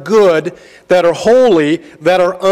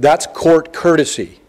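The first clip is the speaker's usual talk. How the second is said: a touch of the preacher, a bit fuller; mild sermonizing tone; light preaching mode. Retold or imitated. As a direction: lecture the kid gently, pulpit-style. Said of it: "I was in a little bit of a preaching mode".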